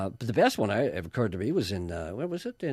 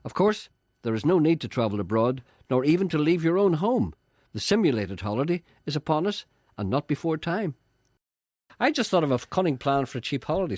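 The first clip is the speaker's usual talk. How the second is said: higher, louder read-aloud voice; column read aloud; 7 semitones higher, 6 dB louder than usual. A narrator's reading. Host reading a holiday column to listeners, read-aloud voice. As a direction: read it out brightly to the audience.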